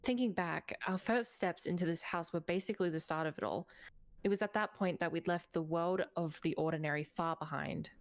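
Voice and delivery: measured storyteller read; story narration. Acted. Reads game story narration.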